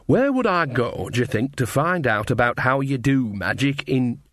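slow, probing folksy question; a hint of a rustic countrywoman; lightly voiced Nanny figure. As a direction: fish for information, taking it slowly.

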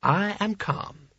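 slow, high, measured chant; intoned. A narrator's reading. Sconner tries to steady himself, intoning. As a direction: intone it slowly, forcing calm. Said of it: "he intoned".

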